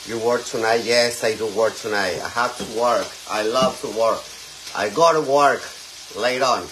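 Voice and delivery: loud, lightly put-on girly voice in English; mock feminine voice. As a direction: show off a feminine voice, hammed-up. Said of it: "Femenina, ¿verdad?". (voz femenina exagerada, en broma)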